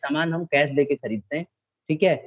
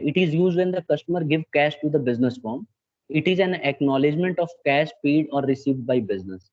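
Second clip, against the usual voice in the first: slow dictation; much slower than usual. Acted. Teacher dictating definition to class.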